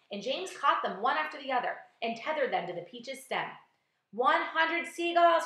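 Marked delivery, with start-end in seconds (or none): 4.1-5.5 slow, high, loud announcement; shouting. A narrator's reading. James announcing the tally to all, shouting. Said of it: "he shouted".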